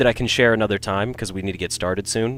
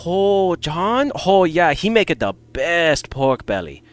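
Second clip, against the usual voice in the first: high-pitched, hammed-up Chinese accent; Nam's fake Chinese accent; 7 semitones higher, slower than usual. Friend vouching for a roommate's cooking by phone, fake Chinese accent. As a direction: put on a broad mock Chinese accent, pitched up. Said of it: "I'll fake the accent for you".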